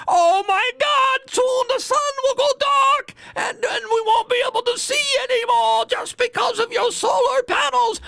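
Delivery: put-on shrieking, wailing old Jewish man accent, very high and loud; angry old Jewish man accent. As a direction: wail in panic like an outraged old Jewish man. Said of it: "It's an angry, uh, old Jewish guy".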